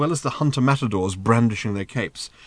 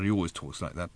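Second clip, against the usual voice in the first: soft, low aside; muttered; 4 semitones lower, 10 dB quieter than usual. A narrator's reading. Arthur explaining Thrashbarg to Ford, muttering. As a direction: drop it to a private mutter. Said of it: "muttered Arthur".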